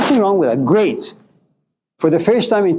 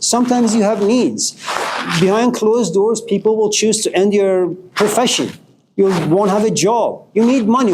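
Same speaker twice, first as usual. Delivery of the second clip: rising, impassioned pitch climbing higher; pleading hard, voice pitched up with passion; fired-up lecture to a friend, voice raised high; heated rant; 3 semitones higher than usual. Real, not acted. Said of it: "the Persian in me comes out".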